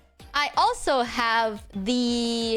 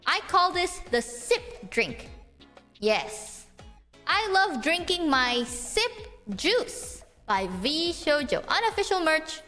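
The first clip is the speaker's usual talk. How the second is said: ad read; slower than usual. Pretend. Slow mock ad read.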